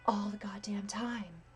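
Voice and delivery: soft airy whisper; breathy whisper. Shown as a demonstration. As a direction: breathe the word out. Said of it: "Imagine if I just talked in breathy voice".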